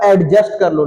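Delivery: एडजस्ट with the D sounded; wrong pronunciation. Shown as a demonstration. Teacher shows what not to say, wrong pronunciation. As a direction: pronounce the "d" before "j" in एडजस्ट. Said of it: "नहीं, एडजस्ट".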